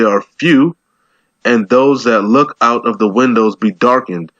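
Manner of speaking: slow, measured Bible reading; verse read aloud at a slow pace; scripture reading. Acted. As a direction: read the verse out slowly and deliberately.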